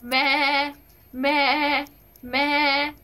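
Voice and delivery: bleating like a goat; mock goat bleats for a dare; playful goat baa. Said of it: "बकरी का आवाज निकालना है".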